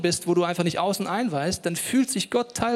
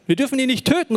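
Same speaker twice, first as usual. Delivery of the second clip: loud, high Bible-reading cry; called out; 7 semitones higher, 6 dB louder than usual. A narrator's reading. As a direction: call it out for Ruben. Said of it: "rief er".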